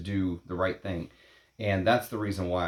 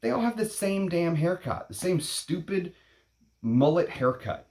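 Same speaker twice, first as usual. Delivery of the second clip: scornful rant; 10 semitones higher than usual. Real, not acted. Ranting about identical haircuts.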